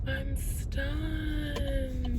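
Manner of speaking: high, slow, stunned wonder; drawn-out high-pitched amazement; awestruck, near tears. Real, not acted. Driver sees a rainbow ahead, awestruck and near tears. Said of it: "I could cry".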